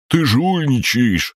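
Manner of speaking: high, slow indignant cry; the green mokosh accuses the crab-gnome of cheating; outraged. A narrator's reading. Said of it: "возмутился зелёный".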